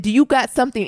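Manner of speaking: acted-out squaring up to someone; imitating menacing dad. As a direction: challenge like a hard-breathing father. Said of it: "he got the breathing hard".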